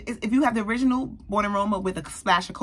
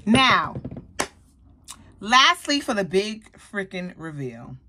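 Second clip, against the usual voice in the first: big reveal; 3 dB louder, slower than usual. Real, not acted. Teasing viewers before the last perfume, a loud excited build-up. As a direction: announce the grand finale.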